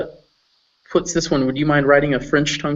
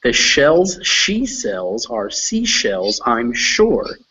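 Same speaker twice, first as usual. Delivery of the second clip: tongue twister recited slowly, each word set apart; tongue twister demo; much slower than usual. Shown as a demonstration. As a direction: model the tongue twister in measured phrases. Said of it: "as fast as I did".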